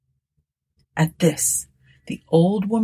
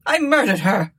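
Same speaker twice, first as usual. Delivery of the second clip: high, frantic outburst; screamed confession; 5 semitones higher than usual. A narrator's reading. Miserable Tabitha confesses to Martha, screaming. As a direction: cry out in guilty terror. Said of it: "screamed the miserable woman".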